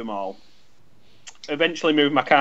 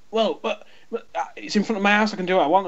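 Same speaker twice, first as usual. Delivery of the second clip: higher, quicker mock indignant protest; mimicking the neighbour; 5 semitones higher, faster than usual. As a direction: sputter like an entitled homeowner. Neighbour quoted in retold row.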